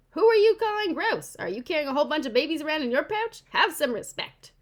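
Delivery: high, loud and offended, like a small creature talking back; indignant opossum mother. Pretend. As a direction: huff at the human who called you gross.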